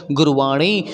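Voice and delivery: गुरुवाणी with the tongue curled back for ण; retroflex ण. Shown as a demonstration. Teacher models गुरुवाणी for learners, retroflex ṇ. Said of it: "मूर्धा में touch करेगा".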